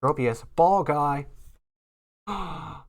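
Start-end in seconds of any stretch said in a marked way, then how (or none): 2.3-2.8 gasp, then loud thrilled announcement; slow, loud, overjoyed reveal; excited gasp. Real, not acted. Rare card pulled.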